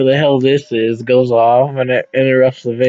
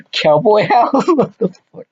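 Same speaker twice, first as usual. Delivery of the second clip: laughing disbelief, higher; 7 semitones higher than usual. Real, not acted. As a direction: crack up at the phrase. Caller laughs at absurd phrase.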